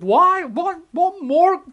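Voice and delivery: high, loud anguished cry; God shouting out. Acted. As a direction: cry out to the people, demanding an answer. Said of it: "he's shouting out".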